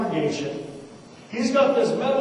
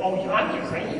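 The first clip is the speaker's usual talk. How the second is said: "you're not Ukrainian?" hissed back as a soft, voiceless, rising whisper yell; mock grandma's angry whisper, rising on "not"; 8 dB quieter than usual. Grandma repeating her grandson's words back in a whisper yell. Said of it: "they do that whisper yell".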